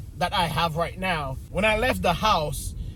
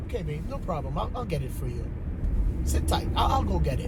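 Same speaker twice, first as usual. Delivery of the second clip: softer, gentle yes-dear reply; sweetly compliant; 4 semitones lower, 5 dB quieter than usual. Retold or imitated. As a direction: swallow the anger and sound accommodating. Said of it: "I was like".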